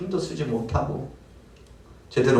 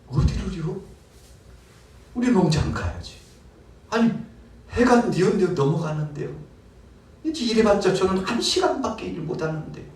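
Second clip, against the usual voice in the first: doubtful worker; 9 semitones higher than usual. Acted. Worker doubts master's offer.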